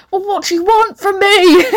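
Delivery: high, loud mock outburst; exasperated. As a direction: throw up a comic, pleading protest. Exasperated reply to annoying friend.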